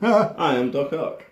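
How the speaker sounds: slow, high, hammy supervillain boast; villain voice. Pretend. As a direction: announce yourself like a mad scientist. Playing villain Doc Ock.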